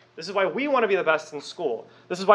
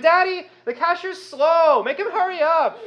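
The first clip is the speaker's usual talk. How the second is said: put-on much higher whiny kid voice; child whining to dad at In-N-Out; 10 semitones higher than usual. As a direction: complain to daddy like a spoiled child. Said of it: "He's like".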